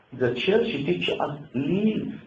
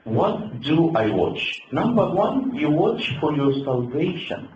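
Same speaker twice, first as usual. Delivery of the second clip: sudden louder, higher call to the flock; preaching call; 4 semitones higher, 5 dB louder than usual. Real, not acted. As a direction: lift the voice and rally the congregation. Preacher raising voice to congregation.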